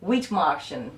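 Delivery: lightly German-accented name. Real, not acted. Reading a viewer's surname aloud, mild German accent. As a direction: give the surname a touch of German. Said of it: "I put an accent there".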